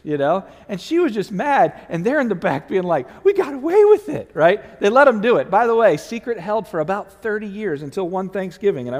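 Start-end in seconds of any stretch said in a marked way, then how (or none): 3.2-4.3 gleeful whisper-shout. Retold or imitated. Kids gloating in the back.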